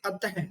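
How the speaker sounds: अतः with a breathy aha release at the end; visarga demo. Shown as a demonstration. Teacher showing students how अतः ends in breath. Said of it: "अगर हम इसका उच्चारण करते हैं तो कैसे करते हैं".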